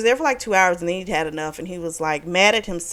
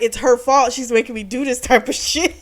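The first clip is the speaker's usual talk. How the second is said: louder, higher, half-laughing complaint; mock exasperated anger; 4 semitones higher, 4 dB louder than usual. Husband blaming his wife for his behavior, mock angry. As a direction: imitate a man blaming her, laughter breaking in. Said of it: "because he was mad at her".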